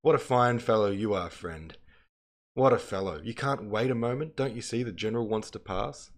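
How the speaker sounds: sarcastic original. Acted. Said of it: "in the original, it says".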